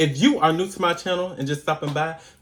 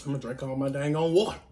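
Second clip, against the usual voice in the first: talking with a spicy mouth; speaking through spicy heat; mouth burning; faster than usual. Real, not acted. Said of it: "extremely too spicy today".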